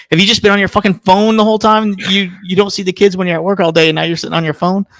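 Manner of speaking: high-pitched nagging impression; imitating scolding wife. Husband imitating his wife catching him on the phone, high-pitched scolding.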